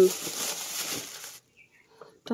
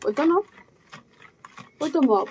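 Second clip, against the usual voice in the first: raised pitch, spoken up for an elder; to someone hard of hearing; 5 semitones higher, much faster than usual. Real, not acted. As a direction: speak up clearly for grandma. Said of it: "কানে কম শুনে". (কানে কম শোনা দাদুকে উঁচু গলায়)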